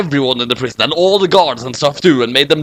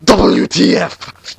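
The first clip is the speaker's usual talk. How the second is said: shouted; 4 semitones higher, much slower than usual. Acted. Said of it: "shouted Light".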